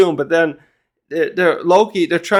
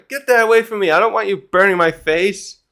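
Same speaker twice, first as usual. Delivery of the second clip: high-pitched mock panic; hammed-up alarmed refusal; freaking out; 5 semitones higher than usual. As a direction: act out frantic protest, pitch up. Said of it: "he's freaking out as much as he can".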